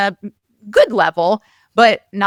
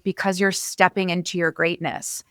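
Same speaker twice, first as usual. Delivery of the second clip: softer, calm and reassuring quote; calm, gentle; 3 semitones lower, 6 dB quieter than usual. Retold or imitated. Friend Scott calming her after her talk, soft and calm. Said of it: "He said very calmly".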